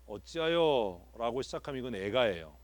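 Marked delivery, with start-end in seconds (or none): 0.1-1.4 solemn lament reading. Shown as a demonstration. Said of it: "학교에서 시를 이렇게 배워서".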